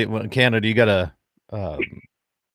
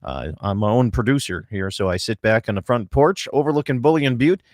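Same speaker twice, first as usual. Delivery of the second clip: bright, loud on-air radio welcome, slowing down for the phone number; radio host open; 3 semitones higher, 4 dB louder than usual. Real, not acted. Radio host greeting listeners at the show's open, upbeat announcer voice. Opens live radio show.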